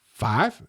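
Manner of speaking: questioning Southern FIVE, rising at the end; Southern-style FIVE as a question; Southern pronunciation. Retold or imitated. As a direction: ask "five" with a Southern vowel. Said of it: "It is not five".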